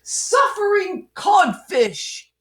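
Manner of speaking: high, slow joyful shout; knee-slapping sailor exclamation; delighted shout. Acted. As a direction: belt it out like an old sea dog. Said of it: "slapped his knee and shouted".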